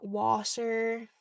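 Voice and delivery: "washer" for water, Irish style; Irish accent. Shown as a demonstration. Showing viewers how Ireland says water, Irish accent. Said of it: "In Ireland, we'd say, like".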